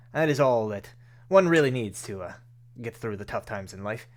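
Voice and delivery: lightly voiced earnest consoler, loud start easing off; reassuring Rainier. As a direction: lightly play a formal, reassuring benefactor. Voices Rainier consoling a bereaved player character.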